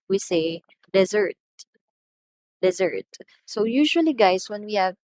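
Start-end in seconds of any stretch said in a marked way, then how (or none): 0.9-1.3 "dessert" as de-ZERT; verb stress. Shown as a demonstration. Teacher models the verb, "dessert" stressed on second syllable. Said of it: "When we talk about the verb". 2.6-3.1 "dessert" as de-ZERT, falling; weight the second syllable of "dessert"; verb stress. Shown as a demonstration. Teacher repeats the verb, "dessert" stressed on second syllable. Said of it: "When we talk about the verb".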